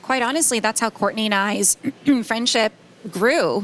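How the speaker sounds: hoarse, worn-out voice; losing her voice. Real, not acted. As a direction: talk through a voice that's going. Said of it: "Sorry, I'm losing my voice".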